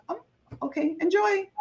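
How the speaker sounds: high, light and airy brush-off; breezy okay enjoy. Retold or imitated. To her brother's burger plans, a high breezy brush-off. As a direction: sing it out lightly, letting it go. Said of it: "And I was like".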